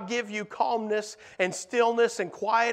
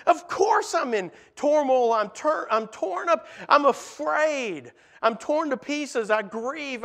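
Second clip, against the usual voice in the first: anguished plea; 5 semitones higher than usual. Acted. Disciples voice their anguish to Jesus.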